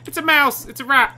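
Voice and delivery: high, loud exclamations; excited alarm. Real, not acted. Player spotting a rat in the game, excited alarm. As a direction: call it out high and urgent.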